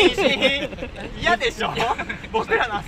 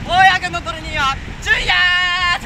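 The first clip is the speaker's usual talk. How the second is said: hammed-up shout; 8 semitones higher, 4 dB louder than usual. Guest makes a hammed-up entrance by hollering, loud and high.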